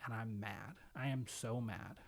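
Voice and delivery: subdued, slowing, understated hurt; imitated breaking down. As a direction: retell it quietly, as a man giving in. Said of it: "he starts breaking down".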